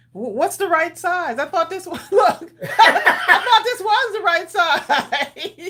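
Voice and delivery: laughing. Real, not acted. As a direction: talk while cracking up. Laughing protest.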